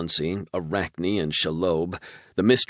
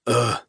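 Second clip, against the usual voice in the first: groan; 6 semitones higher, 4 dB louder than usual. A narrator's reading. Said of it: "I groaned".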